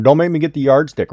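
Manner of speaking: school marm. Shown as a demonstration. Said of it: "it's like a school marm".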